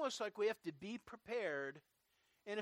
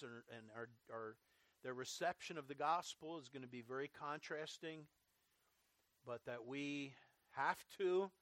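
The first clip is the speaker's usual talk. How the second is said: measured, lower-pitched public prayer; closing prayer; 4 semitones lower than usual. Real, not acted. Preacher leading the congregation in closing prayer, earnest and measured. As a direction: pray aloud in earnest, in unhurried phrases.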